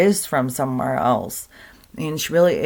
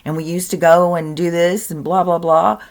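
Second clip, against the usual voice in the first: louder, lightly voiced eager child; imitated kid; 3 semitones higher, 5 dB louder than usual. Kid reminding parent of a past life, imitated child. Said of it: "there's tons of kids remembering".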